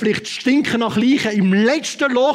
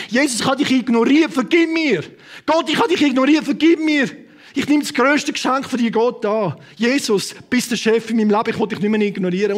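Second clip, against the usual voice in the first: spoken prayer. Shown as a demonstration. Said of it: "jetzt entscheiden und sagen".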